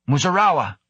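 high, urgent call by name; sharp call. A narrator's reading. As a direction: call out to get a response. Captain calling an unresponsive crewman.

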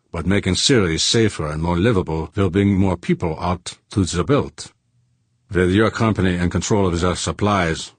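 a hint of a Germanic-accented man; lightly accented accuser. Accuser explaining the dead man's importance, lightly accented. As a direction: explain it earnestly with a slight accent.

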